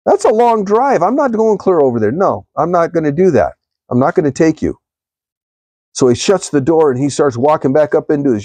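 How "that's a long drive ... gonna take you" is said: higher, mock-stubborn refusal; refusing driver. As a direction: play the driver who won't budge, pitched up. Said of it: "And the guy goes".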